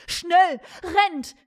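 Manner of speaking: high, loud shouted warning; urgent call. A narrator's reading. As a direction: call out to your men to run for it. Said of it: "rief Siegfried".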